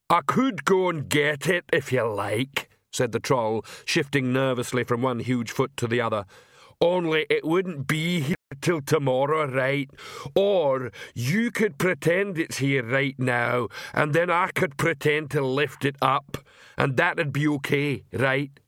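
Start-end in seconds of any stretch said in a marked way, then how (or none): 0.1-2.7 simple troll. Acted. Troll speaks at the border. 6.8-18.6 simple troll. Acted. Troll argues about the pole.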